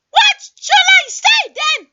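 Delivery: drawn-out, loud, high shout; slow loud shout. Acted. Caller asking what to say, slow shouting. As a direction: shout each word slowly.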